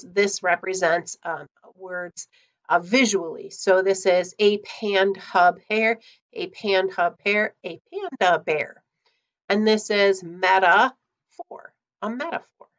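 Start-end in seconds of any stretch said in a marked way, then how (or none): 4.4-7.5 drawn-out, slow syllables; slow Mad Gab. Shown as a demonstration. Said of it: "you keep saying it faster and faster". 7.7-8.8 quicker, natural pace; speeding up. Shown as a demonstration. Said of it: "you keep saying it faster and faster".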